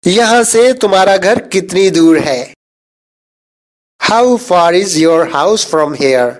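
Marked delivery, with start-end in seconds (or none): 4.0-6.3 slow, careful English sentence; slow model reading. Shown as a demonstration. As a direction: say each word slowly and clearly. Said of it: "teacher says sentence slowly".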